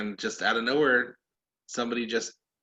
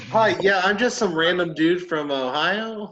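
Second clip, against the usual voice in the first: pretend phone call; 4 semitones higher, 3 dB louder than usual.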